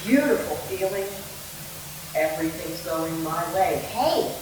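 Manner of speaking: song lyrics spoken, not sung; spoken lyrics with spaced-out pauses; lyrics without music. Shown as a demonstration. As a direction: recite the song lines quietly, without melody. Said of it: "play texts without the music".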